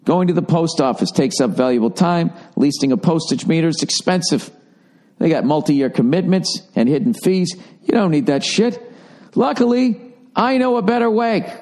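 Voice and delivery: lively ad read, pitch climbing at the end; casual podcast sponsor read. Acted. Reads out an ad.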